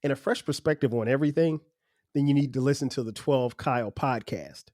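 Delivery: smooth promo announcer voice; ad read. Acted. Host reading his podcast promo, smooth announcer style. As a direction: sell the show like a radio spot.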